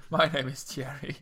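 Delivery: lightly voiced French introduction; French accent. Guest introduces himself as Thierry, lightly put-on French accent. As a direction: say your name like a mock Frenchman. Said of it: "I'm just a foreigner".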